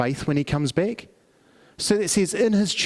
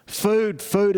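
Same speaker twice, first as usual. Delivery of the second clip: beggar calling out, pitched higher; louder begging; 4 semitones higher than usual. Retold or imitated. Blind beggar calling louder as the crowd passes, raised plea. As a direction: lift the plea over the crowd noise. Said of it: "and so he says louder".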